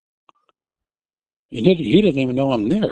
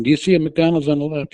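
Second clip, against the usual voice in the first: raised, insistent repeat; retold yelling; 4 semitones higher than usual. Wife repeating the question at her dazed husband, retold yell. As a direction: keep calling it out to him. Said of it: "I kept yelling".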